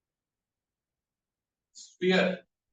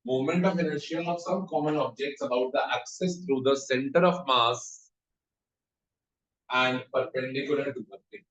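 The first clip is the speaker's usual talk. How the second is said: very slow, word-by-word dictation pace; much slower than usual. Acted. Teacher dictating a heading to students, slow and measured. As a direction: spell it out slowly so students can write.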